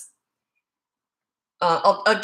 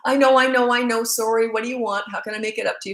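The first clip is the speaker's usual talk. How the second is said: apologetic; 4 semitones higher, 4 dB louder than usual. Retold or imitated. Mom apologising to her kids.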